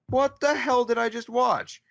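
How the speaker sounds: baffled. Retold or imitated. Baffled kid reacting to episode.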